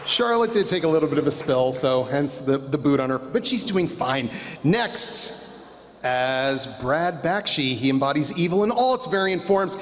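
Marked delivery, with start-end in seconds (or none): 4.6-9.8 pro wrestler announcer voice. Acted. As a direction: ring announcer build to a big name. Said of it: "I'm loving my pro wrestler announcer voice".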